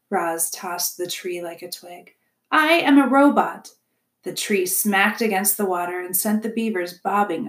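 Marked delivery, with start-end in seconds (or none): 2.5-3.7 higher, louder self-declaration; emphatic robot setting them straight; indignant robot. A narrator's reading. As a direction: correct them firmly, voice raised. Robot corrects the beavers.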